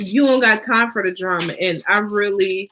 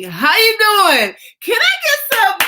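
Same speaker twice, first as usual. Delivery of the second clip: mock pickup line; 13 semitones higher, 5 dB louder than usual. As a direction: ham up a smooth guy hitting on a woman. Flirty pickup line to a woman.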